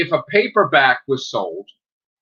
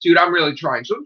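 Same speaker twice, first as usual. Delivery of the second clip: mock exasperated shout; 6 semitones higher, faster than usual. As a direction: wail it like an exasperated clerk. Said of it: "the guy would just be like".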